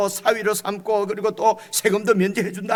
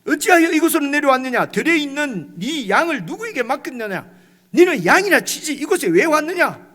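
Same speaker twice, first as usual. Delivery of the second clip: loud, raised scolding of a younger brother; older brother scolding David, loud and angry; 4 semitones higher, 5 dB louder than usual. Retold or imitated. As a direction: rebuke him like a furious big brother. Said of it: "이 형님이 너무 화가 났어요".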